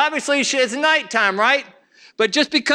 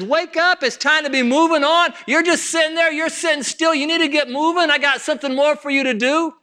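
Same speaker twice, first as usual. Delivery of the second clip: higher-pitched, insistent urging; urgent prodding; 6 semitones higher than usual. Acted. God deals with a stalled believer, urgently prodding. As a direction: prod a sleeper to get moving.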